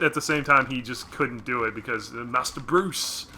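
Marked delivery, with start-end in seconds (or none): 2.2-3.3 slow British butler voice; Michael Caine voice. Retold or imitated. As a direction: drawl it like an old British butler. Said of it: "too Michael Caine not Jeremy Irons".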